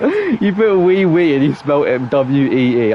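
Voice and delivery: laughing through the words, slowly; amused laughing. Real, not acted. Streamer teasing a viewer's French spelling, amused and laughing. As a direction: drag it out through real laughter.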